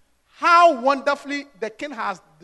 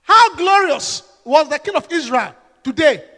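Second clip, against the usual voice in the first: sarcastic; 3 dB louder than usual. Acted.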